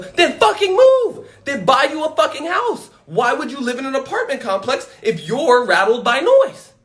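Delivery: incredulous laughing shout; exasperated retort. Acted. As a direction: yell it back at the neighbor. Retorts at the complaining neighbor.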